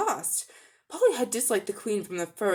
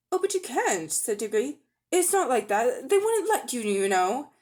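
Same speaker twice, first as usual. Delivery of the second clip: anxious protest; 4 semitones higher than usual. Acted. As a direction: blurt out the objection in a hurry. Diggory protests to the queen.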